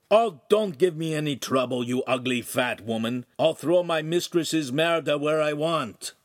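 rasping, scornful Italian retort; rough lout. Acted. Oaf sneering back at the neighbor in Italian, rough. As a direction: brush him off with contempt. Oaf's words translated.

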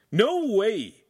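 high, loud retort; a loud defiant retort; shot back loudly. Acted. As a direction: snap it back hard. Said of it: "Handsome shot back loudly".

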